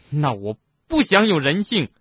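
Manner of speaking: high, loud, defiant shout; angry roar. A narrator's reading. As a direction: hurl it out in fury. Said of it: "哈利吼叫着，".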